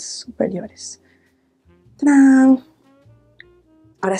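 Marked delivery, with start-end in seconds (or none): 2.0-2.6 bright showy ta-da, higher and louder; ta-da reveal. Real, not acted. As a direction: present it like a magic trick. Revealing finished eye makeup. (revelación alegre)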